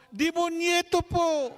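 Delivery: put-on high, loud, slow childish answer; child's voice. Little boy answering the priest, high and slow. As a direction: answer innocently in a squeaky child voice.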